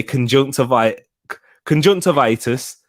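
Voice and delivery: conjunctivitis as a Geordie demo; demonstrating a Geordie lilt; Geordie accent. Shown as a demonstration. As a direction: say it so it comes out Geordie. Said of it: "If you want to speak Geordie".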